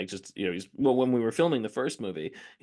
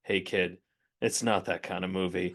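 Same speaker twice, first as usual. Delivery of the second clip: imitating Harrison Ford; 3 semitones lower than usual. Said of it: "Harrison Ford turned to him and went".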